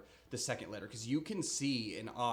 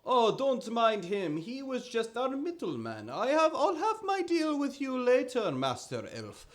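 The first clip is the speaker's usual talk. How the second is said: much higher, loud wheedling trader voice; higher, oily merchant voice; smooth merchant; 13 semitones higher, 8 dB louder than usual. Acted. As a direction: charm the buyer like a slippery merchant. Merchant smoothing over a deal.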